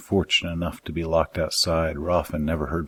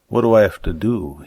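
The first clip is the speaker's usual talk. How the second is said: eager question; 4 semitones higher, 5 dB louder than usual. Acted. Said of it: "his eyes transfixed on the prize".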